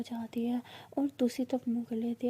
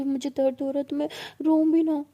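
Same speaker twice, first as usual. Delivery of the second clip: tearful protest; 2 semitones higher, 8 dB louder than usual. A narrator's reading. Mahi, in pain, snaps back at Sana, tearful and loud. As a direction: complain through the pain, pushing back.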